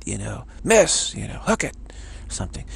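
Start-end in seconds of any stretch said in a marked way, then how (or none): 0.6-1.1 sudden higher, louder mock yell; imitating a dad's distracting shout; retold heckling yell. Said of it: "he'd yell something at him". 1.4-1.8 high-pitched mock heckle; imitating a dad yelling at a golfer; retold heckling yell. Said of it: "he'd yell something at him".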